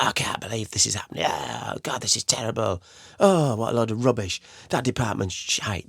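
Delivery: a mild mock rant at the office, hammed up a little; junior's rant. Junior in an office ranting about a bad call, mildly mocking. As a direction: grumble like a fed-up junior slamming the phone. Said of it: "you can sling the phone about".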